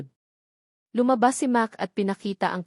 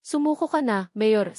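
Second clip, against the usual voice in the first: mild shout. Acted. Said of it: "sigaw ko".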